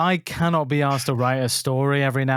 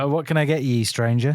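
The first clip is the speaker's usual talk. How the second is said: in character. Acted. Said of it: "Getting into character".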